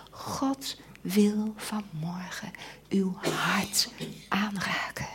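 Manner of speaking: slow, hushed and tender; almost tearful, softly pleading; tender appeal. Real, not acted. Preacher appealing to the congregation, hushed and tender.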